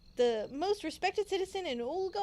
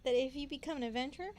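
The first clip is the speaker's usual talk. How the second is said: put-on reading a child's insult and cracking up; laughing through the line; 11 dB louder, faster than usual. Player reads a child's insult aloud, laughing. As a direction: giggles overtaking the last words.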